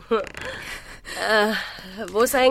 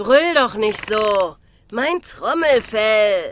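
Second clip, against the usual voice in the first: annoyed; slower than usual. Acted. Complains about the girl's screaming.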